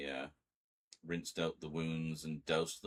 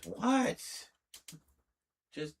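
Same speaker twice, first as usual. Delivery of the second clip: high, louder coaxing voice for the cat; pet talk; 9 semitones higher, 6 dB louder than usual. Acted. Streamer coaxing her cat through the door, high pet-talk voice. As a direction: coax her gently through the door, pitched up.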